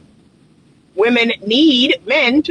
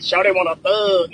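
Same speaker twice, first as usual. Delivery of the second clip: quoting a rapper; 2 semitones lower than usual. Retold or imitated. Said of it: "That's what comes through my head".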